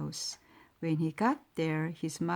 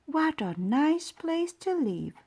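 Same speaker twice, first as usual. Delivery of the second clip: lady at the window; 9 semitones higher than usual. A narrator's reading.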